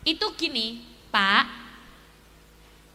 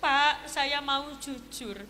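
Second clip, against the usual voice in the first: sad confession; 2 semitones lower, 3 dB quieter, slower than usual. Acted. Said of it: "Sing premane langsung sedih".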